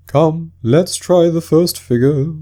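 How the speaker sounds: high, slow, sobbing turtle voice; a weepy sea creature struggling through tears; tearful Mock Turtle. Mock Turtle speaking to Alice, high and tearful.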